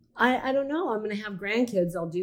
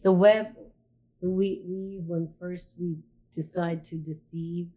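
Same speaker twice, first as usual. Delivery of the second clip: reciting a saying. Shown as a demonstration. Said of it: "it's a saying".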